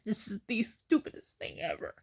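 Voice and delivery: very soft, choked-up voice; real crying. Real, not acted. Upset over the benefits situation, softly tearful. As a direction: barely get it out through tears. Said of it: "I shouldn't be crying like this".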